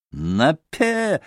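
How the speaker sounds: contained angry cry, pitched high; furious roar. A narrator's reading. Mitya doubles his losing stake, restrained furious roar. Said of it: "рявкнул в ярости Митя".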